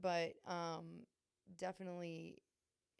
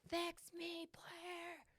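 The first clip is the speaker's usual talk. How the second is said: much higher, whiny pleading put-on voice; mock plea; 11 semitones higher, much slower than usual. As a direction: beg like a helpless child. Retelling pleading to her therapist.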